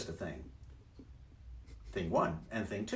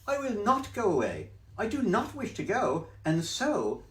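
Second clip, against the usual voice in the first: high, bouncy cheeky cat; cat's voice; 9 semitones higher, 4 dB louder than usual. Acted. Cat in the hat teasing the fish, high and loud. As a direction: brush off the fish, playful.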